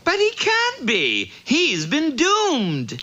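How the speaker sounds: shocked. Acted. Virgil shocked, doom failed.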